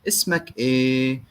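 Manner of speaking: "Ismak e" slow, as ismak eh; "Ismak e" drawn out, the question word at the end; Egyptian Arabic. Shown as a demonstration. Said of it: "And then e at the end means what?".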